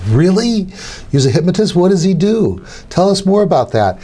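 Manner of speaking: mock eager schoolkid curiosity; curious kids.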